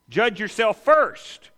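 each word laid down slowly and firmly; slow emphasis. Acted. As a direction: spell it out slowly, judge yourself first. Preacher drives home the point.

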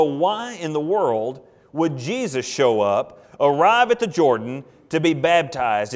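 slow, puzzled wondering aloud; bewildered. Pretend. Preacher voicing the crowd's bewilderment, slow puzzled question. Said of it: "we look at this and go".

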